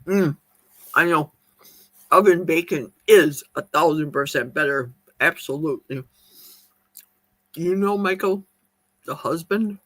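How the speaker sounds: talking through a mouthful; words round a bite of food; mouth full. Real, not acted. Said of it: "I shouldn't be talking with my mouth full".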